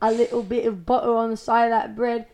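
understated attempt at British; British accent. Shown as a demonstration. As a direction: try a mild British accent. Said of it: "best British accent".

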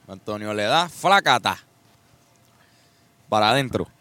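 mock sportscaster calling the action; play-by-play narration. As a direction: narrate his bite like a live match. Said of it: "yo narro".

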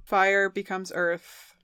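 slow realization. Real, not acted. Slowly taking in the idea.

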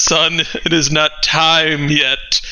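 slow, grave dwarf speaking from the heavens; a lightly voiced ancient dwarf, unhurried; solemn dwarf.

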